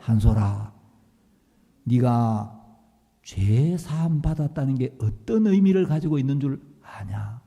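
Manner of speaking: low, gentle fatherly tone; warm and gentle pastor. Retold or imitated. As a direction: soften all at once. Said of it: "너무 따뜻하고 자상하게".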